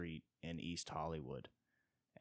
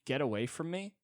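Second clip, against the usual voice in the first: snobby rich guy; 6 semitones higher, 3 dB louder than usual. Retold or imitated. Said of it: "you're like".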